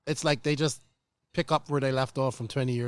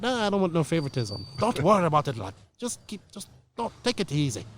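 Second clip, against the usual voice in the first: put-on failed Irish accent; 4 semitones higher than usual. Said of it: "my failed attempt at an Irish accent".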